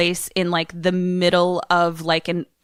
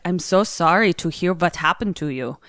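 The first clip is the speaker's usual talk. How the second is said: light mock-Swedish accent. Swedish guy consoling the girlfriend, light Swedish accent. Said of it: "talking to the Swedish guy".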